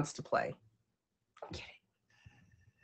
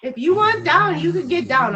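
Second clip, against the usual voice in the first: exasperated; 8 semitones higher, 6 dB louder than usual. Real, not acted. Telling off the wriggling dog.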